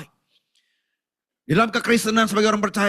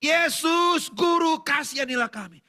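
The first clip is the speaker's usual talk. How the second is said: crying out; 7 semitones higher, slower than usual. Acted. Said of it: "berdiri agak jauh dan berteriak".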